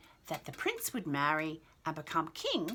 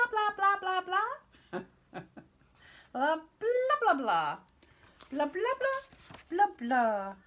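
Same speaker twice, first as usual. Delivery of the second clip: mock nagging queen; 12 semitones higher, 3 dB louder than usual. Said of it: "See her mouth going blah".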